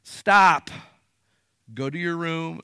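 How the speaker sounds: loud, sharp "Stop" then a calmer order; firm parent command. Shown as a demonstration. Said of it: "it's a good thing to just say".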